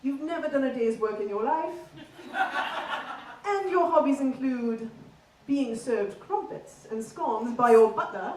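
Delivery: posh, prim Queen's English accent; very proper standard British RP; received pronunciation. Shown as a demonstration. Comic teaching the crowd posh English, in received pronunciation. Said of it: "we'll do a very bog standard English accent".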